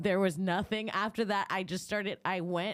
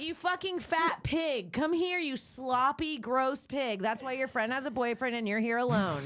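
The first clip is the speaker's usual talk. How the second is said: furious high taunting; raging insults; 6 semitones higher than usual. Retold or imitated. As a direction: tear into her, half laughing. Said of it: "I was like".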